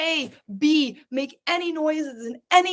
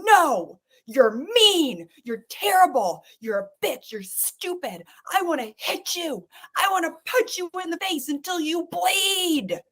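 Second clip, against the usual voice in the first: mock angry outburst; 4 semitones higher than usual. Shown as a demonstration. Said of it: "This is anger".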